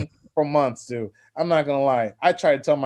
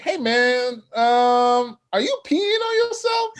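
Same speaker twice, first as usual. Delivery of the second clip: mock girl's voice; 8 semitones higher, slower than usual. Girl voiced in story.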